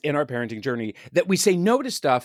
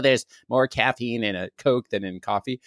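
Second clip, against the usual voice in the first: put-on vague European accent; 4 semitones lower than usual. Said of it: "offended, like, ten countries with that accent".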